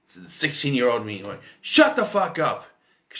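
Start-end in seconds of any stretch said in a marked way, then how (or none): 1.6-2.7 slow, high, loud yell; retold yell. Sixteen-year-old self going off at the TV, retold yell. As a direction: drag out an exasperated yell. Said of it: "I kept yelling at the TV".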